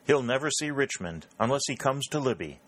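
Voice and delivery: coarse, loud jeer; coarsely. Acted. Redfield jeering coarsely at Grant among gentlemen. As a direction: sneer it out crudely. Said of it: "said Redfield coarsely".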